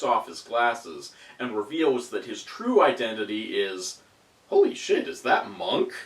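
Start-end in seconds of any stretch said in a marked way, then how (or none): 4.5-5.1 high, loud shocked exclamation. Acted. Shocked reveal of villain. 5.1-5.9 whispering. Acted. Whispered after shocked reveal.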